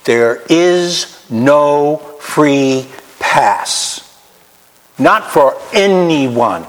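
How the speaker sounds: very slow blunt delivery. Real, not acted. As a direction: lay each word down slowly and bluntly. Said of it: "Let me tell you bluntly".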